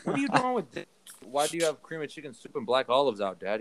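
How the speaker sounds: mock horror at the counter; shocked question. Son retells confronting dad over the soup can, mock horrified. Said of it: "I'm like".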